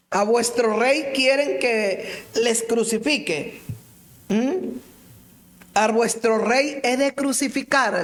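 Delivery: lightly voiced Pilate, slow and questioning. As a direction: ask it like a doubting governor. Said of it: "les dice Pilato". (Pilato preguntando a la multitud, con voz algo cambiada)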